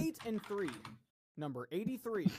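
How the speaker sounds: steady bingo caller call-out. Acted. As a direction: announce each number like a hall caller. Calls bingo numbers.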